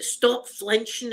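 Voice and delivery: slow, firm teacher's command; mild mock scolding, dragged out; stern teacher. Teacher scolding a frightened girl, mildly stern. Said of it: "the teacher kept saying".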